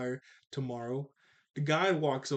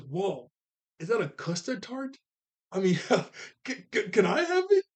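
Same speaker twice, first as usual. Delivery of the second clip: eager begging; 5 semitones higher, 4 dB louder than usual. Retold or imitated. Aang spots a custard tart.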